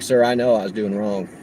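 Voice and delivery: imitating a best Alabama country accent. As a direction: put on your best polite Alabama accent. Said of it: "So I did my best Alabama accent".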